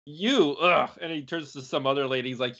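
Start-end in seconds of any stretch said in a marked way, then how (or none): 0.1-0.9 playful imitation of revulsion; mock disgust. Film hero turning from an ugly lady, mock disgust. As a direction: recoil from someone in pretend disgust.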